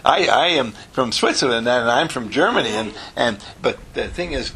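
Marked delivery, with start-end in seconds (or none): 0.0-2.7 imitating a student's proud reply; lightly acted pride in one's origins; mock proud. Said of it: "And Ellen says proudly".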